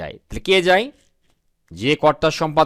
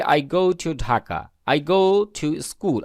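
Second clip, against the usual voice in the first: slow model sentence; much slower than usual. Shown as a demonstration. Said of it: "তখন আমরা বলি".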